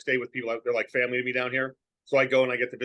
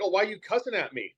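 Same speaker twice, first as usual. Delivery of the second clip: offended southerner; 5 semitones higher than usual. Retold or imitated. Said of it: "you have to be conscious".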